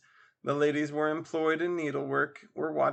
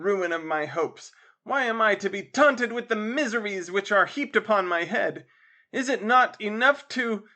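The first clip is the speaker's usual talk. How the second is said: loud, higher tragic outburst; fury; 6 semitones higher, 5 dB louder than usual. Acted. Simon rages at his father's teasing, loud and high. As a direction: rant like a wounded romantic hero. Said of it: "ebullition of fury".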